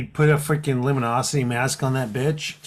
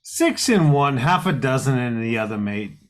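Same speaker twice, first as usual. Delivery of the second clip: mock Aussie slang. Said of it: "the Australian accent".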